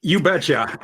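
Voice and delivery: a light hint of a Minnesota accent; tossed-off folksy Minnesotan reply. Vikings drafter answers the host in a light Minnesota accent. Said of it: "What accent was that?".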